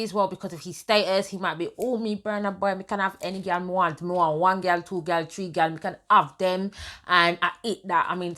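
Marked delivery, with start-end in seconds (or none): 1.8-6.7 mock Nigerian voice. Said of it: "I know he's Nigerian".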